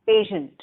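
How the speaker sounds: "patient" said carefully as a lone word; model pronunciation. Shown as a demonstration. Teacher has students repeat the word, careful model "patient". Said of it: "the exact pronunciation".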